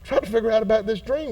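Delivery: hushed, mock-innocent little brother; innocent Joseph. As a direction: play dumb, softly, as if just asking. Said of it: "trying to be so innocent".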